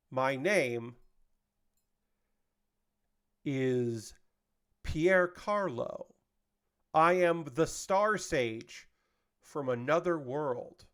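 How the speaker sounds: slow, lofty self-introduction, lightly voiced; grand bird sage. Bird introduces itself to the guy, slow and lofty. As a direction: announce yourself like a mystic sage. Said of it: "the bird just says".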